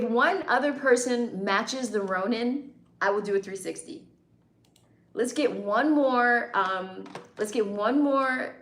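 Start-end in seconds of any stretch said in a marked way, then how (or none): 5.1-8.5 slow urging call. Real, not acted. Urging viewers for a super chat.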